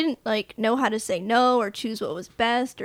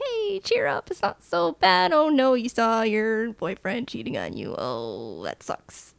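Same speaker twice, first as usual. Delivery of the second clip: cheering up a friend. Retold or imitated. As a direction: play a chipper guy comforting her. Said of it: "He's like".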